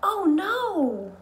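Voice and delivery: high, loud, alarmed oh no; dramatic oh no. Acted. Teacher acting out dismay at the missing cupcakes, high and loud. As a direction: gasp it out like a disaster. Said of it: "Words such as uh-oh".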